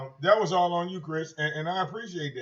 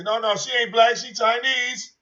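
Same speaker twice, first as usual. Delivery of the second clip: higher, louder mimicked protest; mock insistence; 5 semitones higher, 6 dB louder than usual. Host mimicking viewers spreading his rumor, mock-insistent. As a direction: imitate gullible people insisting, pitched up.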